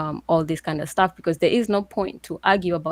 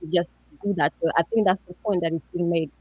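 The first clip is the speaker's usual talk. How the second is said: muffled. Real, not acted. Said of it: "I'm sorry, muffled".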